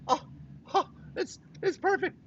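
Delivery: breathy, high gasp of wonder over the card; awed delight. Real, not acted. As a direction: marvel at it, voice way up and hushed. Admiring the card after shaking it.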